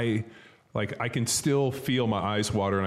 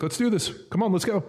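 taunting call-out; 11 semitones higher than usual. Retold or imitated. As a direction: call out the tired linemen. Hands on hips taunting linemen.

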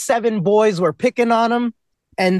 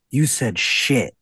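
mock shocked kids; 10 semitones lower, much slower than usual. Kids mocked for being shocked.

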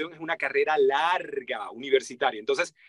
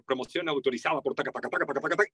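rattled-off fine print; rapid-fire legal-tag patter; sped-up legal disclaimer; 3 semitones lower, 4 dB quieter, faster than usual. Shown as a demonstration. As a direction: race through it like legal small print. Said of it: "y eso lo apuran".

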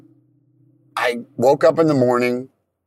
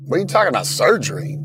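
retold disbelief; 3 semitones higher, faster than usual. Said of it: "I literally freaked out".

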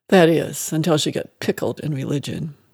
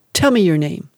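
demanding; 4 dB louder than usual. Acted. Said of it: "she demanded".

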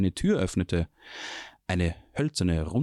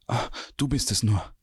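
relieved breath, a touch higher; relieved gasp; 4 semitones higher than usual. A narrator's reading. Quinn hears approaching steps and gasps in relief. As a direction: sigh it out in relief. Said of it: "keuchte Quinn erleichtert".

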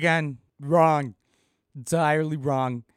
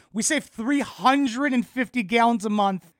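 exasperated sarcasm; 5 semitones higher, 5 dB louder than usual. Real, not acted. Sarcastic rant on bricks claim.

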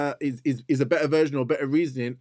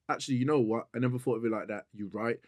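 imitating a concession; 5 semitones lower, 7 dB quieter, faster than usual. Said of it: "I'll turn around there and go".

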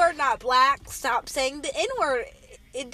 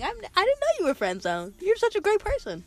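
mock-sweet compliment, rising higher at the end; insincere flattery; 5 semitones higher than usual. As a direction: lay on fake praise. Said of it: "I, I was lying".

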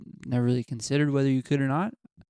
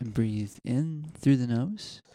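guided meditation; much slower than usual. Pretend. Leads a mock meditation.

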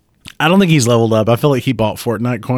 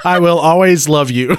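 laughing vow; 5 semitones higher, 3 dB louder than usual. Retold or imitated.

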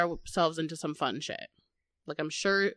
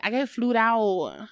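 meme voice; 3 semitones higher, slower than usual. Retold or imitated. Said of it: "Everyone's like".

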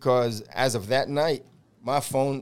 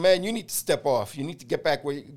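telling him off. Retold or imitated. Boarding officer tells the assistant to step off, heated. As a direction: bark it at a pushy trainee, half acted. Retold shove-off at fellow officer.

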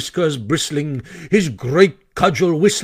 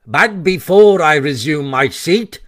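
speechmaking weasel; 4 dB louder than usual. Acted.

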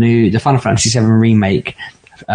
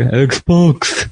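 mock Newcastle accent; 3 semitones higher than usual. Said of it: "No, I'd be like".

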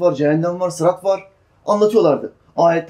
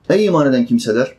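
ordinary delivery

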